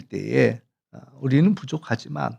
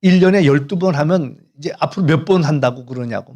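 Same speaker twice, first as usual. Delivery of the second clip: mock indignant scolding, somewhat louder; retold angry outburst; 5 dB louder than usual. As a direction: imitate an elder huffily protesting. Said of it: "막 화를 내면서".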